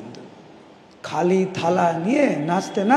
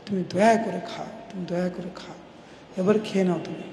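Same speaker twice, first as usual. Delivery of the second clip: begging softly; 6 dB quieter than usual. Acted. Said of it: "এত কাতরভাবে".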